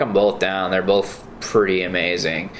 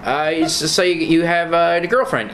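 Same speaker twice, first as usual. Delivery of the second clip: high, chirpy ventriloquist voice; squeaky ventriloquist voice; 8 semitones higher than usual. Retold or imitated. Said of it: "Where he's, like, a ventriloquist dummy".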